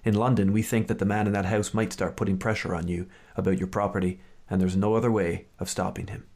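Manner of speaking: measured storyteller read; story reading. Acted. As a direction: read the passage like an audiobook. Reads Fleming passage aloud.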